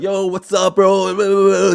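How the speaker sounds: high-pitched mock bro greeting; exaggerated, drawn-out bro voice; bro talk. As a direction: imitate guys hollering to their bros at the club. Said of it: "They talk like this".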